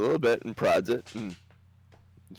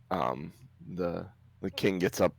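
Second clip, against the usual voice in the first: ordinary delivery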